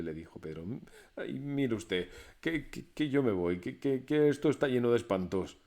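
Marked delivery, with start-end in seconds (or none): 1.2-5.6 stuttering nervously, a little louder; frightened stammer. Acted. Scared Pedro tells the master he's leaving, stammering.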